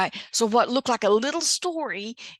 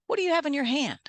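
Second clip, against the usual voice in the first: voicing God; 7 semitones higher, faster than usual. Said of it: "God asked Moses".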